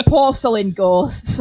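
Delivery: slow, deliberate clarification. Retold or imitated. Old man clarifying slowly.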